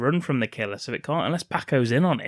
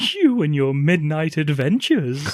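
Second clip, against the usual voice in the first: teasing; 3 semitones higher, 3 dB louder, slower than usual. Retold or imitated. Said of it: "Laura says to Angela".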